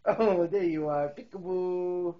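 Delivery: loud, delighted peekaboo reveal; spring the surprise on him. Real, not acted. Parent finds baby behind hiding spot, loud delighted peekaboo.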